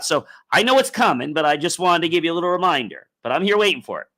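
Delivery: light, chatty, quick reminder to a busy friend; breezy friendly reminder. Retold or imitated. Talking to the universe, lightly voiced casual friendly nudge. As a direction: cheerfully nudge the universe about an overdue delivery. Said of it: "The universe works well with".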